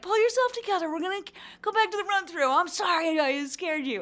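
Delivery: mock scold yourself to pull it together; flustered self-talk. Actress telling herself to pull it together, lightly hammed. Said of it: "And I was like".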